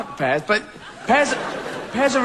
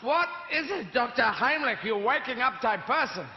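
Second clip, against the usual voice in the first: high sleepy wife; 6 semitones higher than usual. Acted. Hilda answers.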